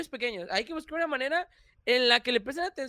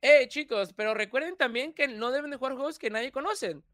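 youtuber punchline; 3 semitones higher than usual. Retold or imitated. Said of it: "Así como".

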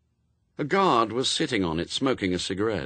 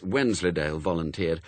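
usual speaking voice

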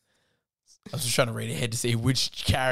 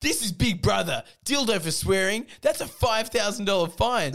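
announcer voice; 6 semitones higher, 3 dB louder than usual. Acted. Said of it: "said Big Brother".

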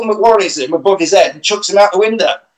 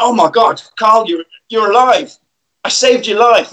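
surprised; 5 semitones higher than usual. Retold or imitated. Doctor shocked to see Carl.

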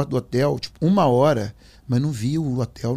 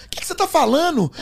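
retold bewildered question; 3 dB louder than usual. Retold startled argument with friend.

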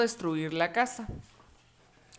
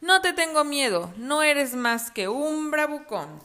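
put-on defiant boy; 5 semitones higher, slower than usual. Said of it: "gritó".

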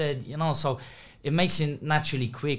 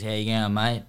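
lower-pitched, lightly imitated Aussie accent; Australian accent; 4 semitones lower than usual. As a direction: slip briefly into a mock Australian accent. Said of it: "can you grow an Australian accent".

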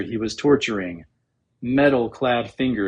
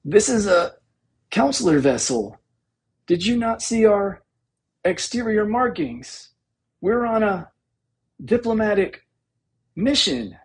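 much higher, strained squeal of indignation; squeal of outrage; 9 semitones higher than usual. A narrator's reading. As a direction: squeal it out, outraged despite the choking grip. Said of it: "he dredged up a squeal of outrage".

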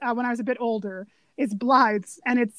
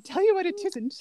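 higher, lightly imitated British line; a touch of proper British, pitched up; 5 semitones higher than usual. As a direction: quote a very proper Brit. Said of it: "that's how British he is".

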